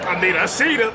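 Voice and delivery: shouted through laughter; loud repeat. Retold or imitated. Friend echoes the suspect's line, loud and laughing. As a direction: yell the line back laughing. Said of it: "laughs, repeating louder".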